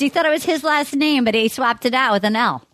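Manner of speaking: hammed-up Boston accent. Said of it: "I'll stop my accent".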